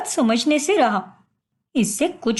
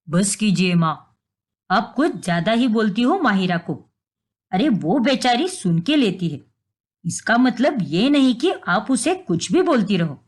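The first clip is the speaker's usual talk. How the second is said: son's voice; 5 semitones lower than usual. Acted. Son defends wife.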